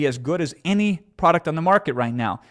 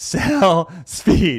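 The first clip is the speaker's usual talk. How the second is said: loud, bursting with excitement; 3 semitones higher, 5 dB louder than usual. Repeating a two-word tip one more time: super excited. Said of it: "I got super excited there".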